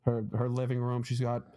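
comedian's Boston accent, imitated; thick Boston accent. Retelling a comedian's hoarder bit in a Boston accent. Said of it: "he's got a really thick Boston accent".

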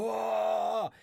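long loud high whoa; hammed-up wide-eyed amazement, drawn out; mock awe. Retelling racing through a new book, hammed-up awe.

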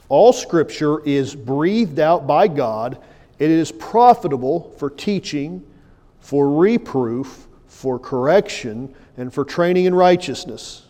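solemn public reading of scripture. Acted. Reads ESV text aloud.

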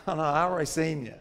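quick, laughing reassurance; laughing tease. Retold or imitated. Pastor teasing the flustered churchgoer, laughing fast. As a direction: rush it out with a laugh.

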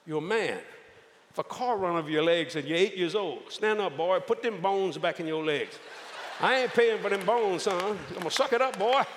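hammed-up hard-nosed father; tough father. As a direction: bark it like a no-nonsense dad. Voicing tough father lecture.

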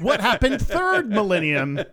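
high, drawn-out comic alarm; mock panic. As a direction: play up the pretend shock, slowly. Repeats the joke amid laughter.

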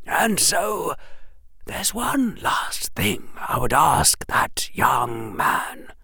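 put-on slow, hushed old wizard voice; old headmaster whisper. Headmaster thanking Harry, slow and hushed. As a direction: breathe it like a frail old headmaster.

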